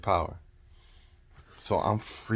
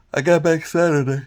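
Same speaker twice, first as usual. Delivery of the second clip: voice cracking; 8 semitones higher, 9 dB louder than usual. Real, not acted. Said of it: "Excuse me".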